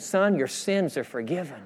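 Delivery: softened voice of forgiveness; tender reassurance. Acted. Preacher voicing Jesus looking at the man, soft reassurance. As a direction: ease off and say it softly.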